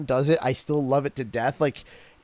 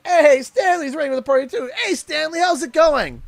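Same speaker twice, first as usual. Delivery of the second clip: high rising Canadian lilt, louder; sing-song Canadian greeting with rising ends; Canadian accent demo; 11 semitones higher, 4 dB louder than usual. Shown as a demonstration. Explaining Canadian speech, he greets Stanley in a high Canadian lilt. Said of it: "a rise at the end of the comment".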